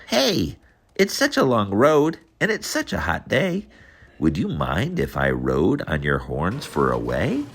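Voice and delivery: high squeaky little bug calling out; bingo bug voice. Acted. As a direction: call out like a tiny bug hitching a ride. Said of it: "The bug called out".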